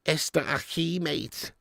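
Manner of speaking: a hint of Scouser speaking Spanish; lightly put-on Scouse Spanish. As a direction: toss out Spanish with a Scouse twang. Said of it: "Scouser's accent in a Spaniard".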